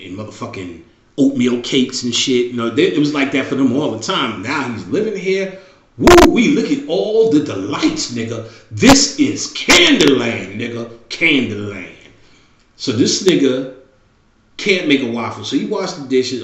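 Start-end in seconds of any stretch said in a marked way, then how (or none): 6.0-12.0 put-on excited kid. Kid delighted by sodas.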